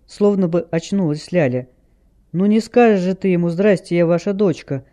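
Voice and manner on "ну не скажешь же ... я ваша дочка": plain reading voice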